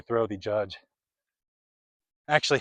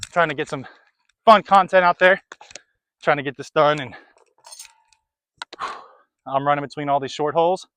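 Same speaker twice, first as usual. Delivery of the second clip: panting, out of breath; talking while catching breath; 3 dB louder than usual. Real, not acted. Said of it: "I'm out of breath".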